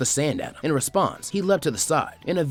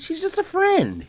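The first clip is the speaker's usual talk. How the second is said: flustered squeak; slower than usual. Acted. Flustered boy denies crush.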